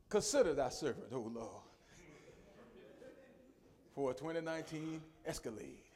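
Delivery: humble prayer. Shown as a demonstration. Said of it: "But rather I can say".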